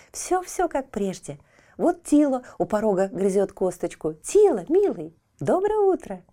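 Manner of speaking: put-on high excited child voice; a boy, delighted and high.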